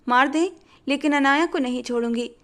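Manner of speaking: second मार दें pushed up with a rising दें; stubborn defiance. Acted. Haya daring Buzdan to go through with it, stubbornly. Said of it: "ज़िद्दी लहजे में बोली".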